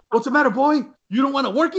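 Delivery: high, loud taunt in mock Hispanic accent. Foreman needling workers on break, high mock Hispanic accent. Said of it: "he did in his best, uh, Hispanic accent".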